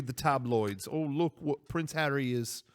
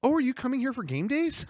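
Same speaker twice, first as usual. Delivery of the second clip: impression of Japanese greeter; 10 semitones higher than usual. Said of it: "let me do an impression of that".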